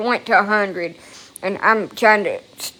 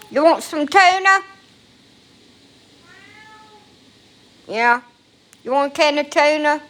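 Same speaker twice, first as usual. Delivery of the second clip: pet talk; 7 semitones higher than usual. Real, not acted. Offering her cat tuna.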